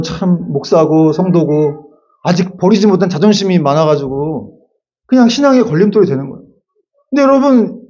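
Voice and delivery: normal talking voice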